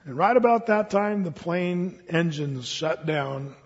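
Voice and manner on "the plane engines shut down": grim ending. A narrator's reading. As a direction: let the doom sink in quietly.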